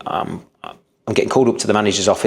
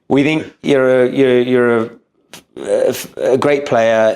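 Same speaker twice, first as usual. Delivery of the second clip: put-on Scottish accent; 3 semitones higher, slower than usual. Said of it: "Go on".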